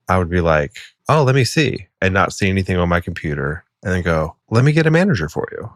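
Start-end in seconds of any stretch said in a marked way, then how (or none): 1.1-1.9 higher-pitched customer service voice; pretend desk clerk. Acting out a service desk worker. 4.5-5.7 high, fast customer service voice; pretend desk clerk. Acting out worker passing customer on.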